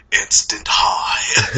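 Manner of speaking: very slow, breaking up with laughter; laughing mock quote. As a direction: drag it out while cracking up. Freddy quote through laughter.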